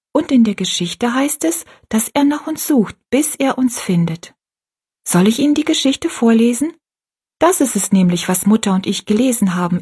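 leicht höher gesprochenes Mädchen; kindliche Rosalie. Acted. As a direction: ein stolzes Kind erklärt sein Bild. Rosalie speaks. (Rosalie erzählt der alten Frau stolz vom Bild, leicht höher)

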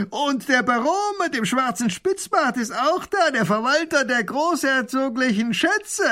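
cackling bandit voice; mocking robber. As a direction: taunt the nobles from across the river. Robber mocks the visitors.

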